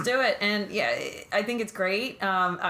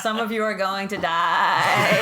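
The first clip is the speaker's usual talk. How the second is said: bleating like a ram; 5 dB louder than usual. Retold or imitated. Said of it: "Gabriel's Billy Goat impression".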